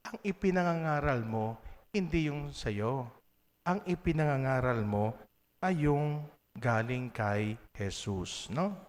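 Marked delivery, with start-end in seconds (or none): none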